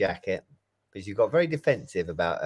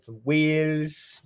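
badly faked Welsh accent; 6 semitones higher, much slower than usual. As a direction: put on a mock Welsh lilt. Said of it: "that was a bad Welsh accent".

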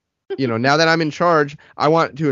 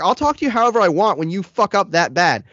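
higher heated comeback; retold yell; 7 semitones higher than usual. Telling off the driver after his mistake, heated. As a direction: fire back at the driver. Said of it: "he starts yelling something back".

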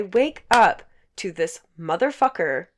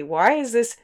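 loud, higher, drawn-out outrage; indignant rant, louder and higher; retold exasperation; 5 semitones higher, 5 dB louder, slower than usual. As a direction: hit each word in slow disbelief. Retold outrage at unwanted guest.

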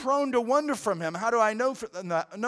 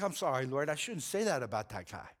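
quiet confession; 6 semitones lower, 7 dB quieter than usual. Retold or imitated. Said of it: "I confessed even vocally".

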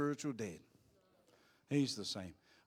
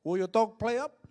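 shouting back; 8 semitones higher, 8 dB louder than usual. Retold or imitated. Shouting back across the road.

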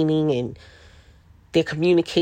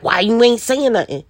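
voicing her puzzled kids; 6 semitones higher than usual. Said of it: "they literally be like".

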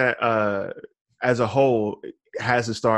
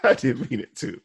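laughing apology; 2 semitones higher than usual. Real, not acted.

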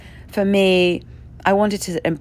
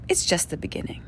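whispered; 3 semitones lower, 7 dB quieter than usual. Real, not acted. Hushed emphasis.

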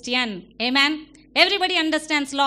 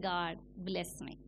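pleading servant; 8 semitones lower, 14 dB quieter than usual. Acted. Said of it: "A servant pleads".

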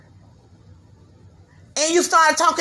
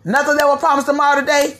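quick, scoffing echo of the line as a question; mocking retort; faster than usual. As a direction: throw his words back with a sneer. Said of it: "oh yeah, word, you think so?".

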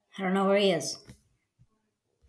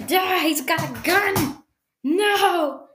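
higher, drawn-out alarmed cry; mock alarm at a gunman; play panic; 6 semitones higher, slower than usual. Podcaster spots an imaginary gunman, pretend panic.

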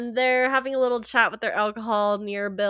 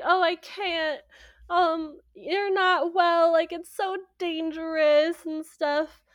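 worried Charlotte; 6 semitones higher than usual. Retold or imitated.

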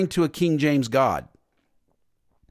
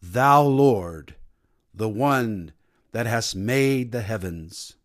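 put-on lower, slow British accent reciting King James English; mock British King James prayer; 6 semitones lower, slower than usual. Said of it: "We start praying with a British accent".

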